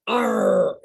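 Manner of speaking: lightly voiced pirate arr. Shown as a demonstration. Leader repeating for group, lightly voiced pirate. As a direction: give a short pirate growl, not shouted. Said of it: "Everybody say that".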